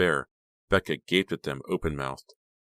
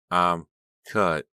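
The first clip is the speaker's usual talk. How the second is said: rasping, hoarse; hoarse whisper; 5 dB louder than usual. A narrator's reading. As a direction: rasp it out weakly. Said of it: "his voice a hoarse whisper".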